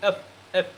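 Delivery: এফ with a puff of air on the f; airy final f in এফ; extra air on F. Shown as a demonstration. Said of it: "একটু বাতাস এখান থেকে একটু বেশিই".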